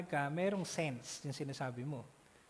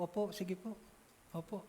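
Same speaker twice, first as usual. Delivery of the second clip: deferential yes; 6 dB quieter than usual. Acted. Respectful people agreeing.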